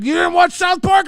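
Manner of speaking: high surprised question; dad puzzled, pitch up high. Retold or imitated. Dad asking his son about South Park, surprised. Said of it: "And he's like".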